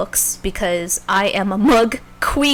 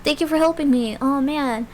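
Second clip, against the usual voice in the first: high, friendly buddy voice pitched way up; Al's voice; 6 semitones higher than usual. Retold or imitated. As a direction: play the eager little pal, all chirpy and high. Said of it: "He's just like".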